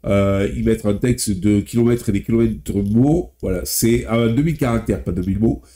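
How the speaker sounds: talking through a blocked nose; stuffy nose, speaking nasally. Real, not acted. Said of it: "je parle un peu du nez, c'est que j'ai le nez bouché".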